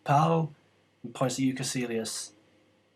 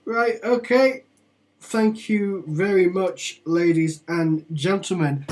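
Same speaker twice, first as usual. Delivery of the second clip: higher, slow polite official; formal guard; 3 semitones higher, 4 dB louder than usual. Acted. Gate guard dismissing travellers, slow formal courtesy. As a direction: welcome them like a stiff gatekeeper.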